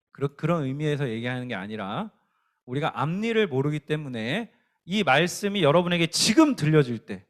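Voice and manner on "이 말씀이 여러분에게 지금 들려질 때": 지금 lifted above the words around it; stress on 지금. Real, not acted. Preacher urging listeners to hear the word today, stress on 지금. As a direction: lean on 지금, then ease off.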